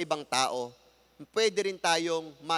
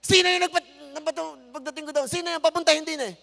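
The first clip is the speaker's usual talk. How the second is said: retold scolding; 9 semitones higher, 4 dB louder, faster than usual. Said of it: "retold angry speech in Kalibo".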